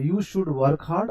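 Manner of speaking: very slow, word by word; very slow model sentence. Shown as a demonstration. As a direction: dictate it slowly to the class. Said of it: "अब देखिए". (बहुत धीरे, शब्द-शब्द)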